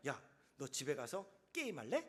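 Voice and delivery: put-on soft, coaxing tone to a child; coaxing parent. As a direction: talk a sulking child round gently. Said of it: "이렇게". (아이를 달래는 부드러운 말투)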